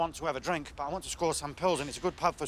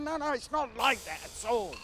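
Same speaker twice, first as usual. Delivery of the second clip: exasperated protest; 5 semitones higher than usual. Retold or imitated. Protesting that others misread him.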